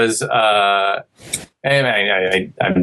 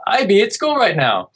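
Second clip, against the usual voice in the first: imitating his kid; 9 semitones higher than usual. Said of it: "So if he's like".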